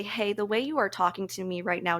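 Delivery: calm but firm telling a friend her tone hurts. Shown as a demonstration. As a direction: set the boundary gently, without ego. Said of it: "you need to say this in a very calm manner".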